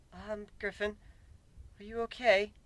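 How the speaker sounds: soft, gentle concern; comforting. A narrator's reading. Luna gently checks on a sulking Griffin, comforting. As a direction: ease the question out softly, with comfort. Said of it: "opting to use a comforting voice".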